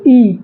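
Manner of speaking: isolated "ई" as a vowel demo; tongue-front vowel. Shown as a demonstration. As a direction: clear "ई" made with the tongue tightened. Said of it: "जीभ सिकुड़ जा रही है".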